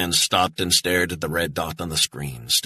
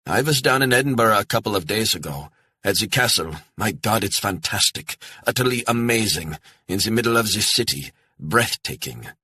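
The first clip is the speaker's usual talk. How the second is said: a hint of an eager German retiree, a bit higher; chatty older German man, lightly played; a touch of a friendly German traveller gushing about the castle; lightly voiced German tourist; 5 semitones higher than usual. German tourist Gerhard speaks.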